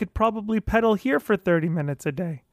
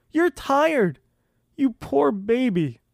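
sarcastic scolding; 4 semitones higher, slower than usual. Shown as a demonstration. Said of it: "this is what it sounds like".

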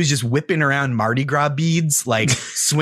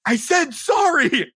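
mock insistent sorry; 13 semitones higher, slower than usual. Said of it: "And he goes".

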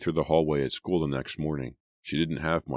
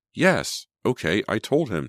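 exasperated, higher-pitched confession; admitting; 7 semitones higher, 4 dB louder than usual. A narrator's reading. Sydney admitting she told Jason, exasperated. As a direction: give in with a high, emphatic yes. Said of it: "Sydney admitted".

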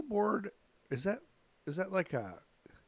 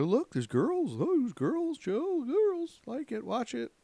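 dad voice; 13 semitones higher, slower than usual. Retold or imitated. Dad voiced pointing out girls.

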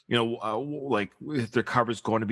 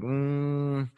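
sceptical; 3 semitones higher than usual. Acted. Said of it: "they're like".

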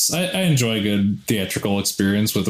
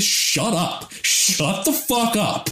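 a hint of Bam Margera, higher and drawn out; Bam impression; 8 semitones higher, slower than usual. Telling the rowdy theater guys to shut up, light Bam voice. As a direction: lightly do Bam snapping at the crowd. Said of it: "That almost sounded like a Bam impression".

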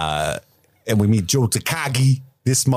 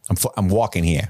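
put-on New York accent; 5 semitones lower than usual. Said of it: "brusqueness to a New Yorker".

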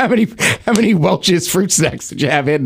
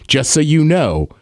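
low mock clerk warning; 8 semitones lower than usual. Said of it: "the lady goes".

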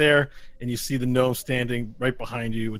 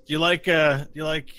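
lightly voiced shady peddler, higher pitched; trench-coat gnome; 5 semitones higher than usual. Gnome in trench coat pitching a deal to adventurers, lightly voiced peddler. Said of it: "the one guy in the trench coat's like".

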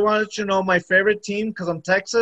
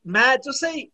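imitating Wikipedia. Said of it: "Wikipedia says".

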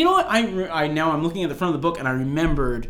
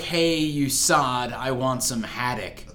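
1 slow plain translation; 3 semitones lower, slower than usual. Shown as a demonstration. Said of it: "that means, like".

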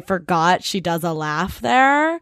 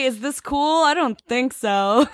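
mock tipsy bewilderment; 5 semitones higher, slower than usual. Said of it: "chugging straight from the bottle, being like".

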